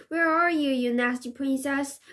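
shouting. Acted. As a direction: yell while running around.

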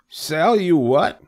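high, loud, puzzled outburst; crying out. A narrator's reading. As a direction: blurt it out, high and baffled. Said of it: "he cried".

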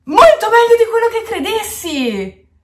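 very high, thrilled outburst; overjoyed fan shouting her praise; ecstatic. Real, not acted. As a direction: burst out with joy at the singer. Ecstatic about the song.

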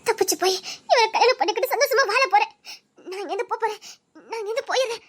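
crying yet determined; tearful laughing resolve; laughing through tears. Acted. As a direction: sob and laugh at once. Weeping, laughing resolve to escape.

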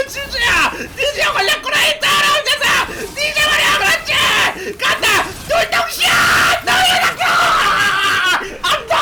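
high-pitched shouting building to a loud scream. Real, not acted. 걸려든 적을 향해 외침. (점점 높고 크게 터지는 흥분한 고함)

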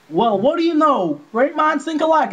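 a light southern twang for Goofy; lazy southern drawl; mock southern drawl. Friend voicing Goofy with a light southern drawl. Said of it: "Why'd you give him a southern".

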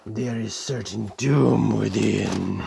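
low, slow warning of doom; mock ominous. Host warning viewers of the cereal, mock ominous. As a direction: draw it out low like a playful threat.

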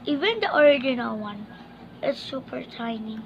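talking while chewing; chewing candy. Real, not acted. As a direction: mouth partly full. Seen 2: Candy put in mouth at -1.0; jaw and lips chewing while talking.

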